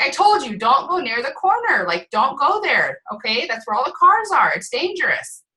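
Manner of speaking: retold parental scolding. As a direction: act out a mother warning her small child. Mother scolding her child in a story.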